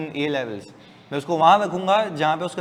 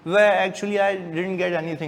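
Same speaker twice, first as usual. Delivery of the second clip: put-on affected English accent; much slower than usual. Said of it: "ऐसा मुंह टेढ़ा करके तो नहीं बोलूँगा".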